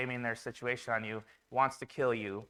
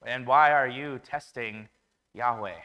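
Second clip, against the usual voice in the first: mild mock anger; 5 dB louder than usual. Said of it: "And Moses gets mad at them".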